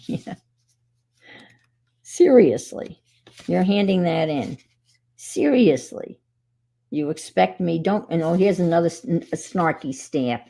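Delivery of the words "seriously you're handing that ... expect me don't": exasperated teacher. Retold or imitated. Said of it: "I would put that on the top of the paper and say".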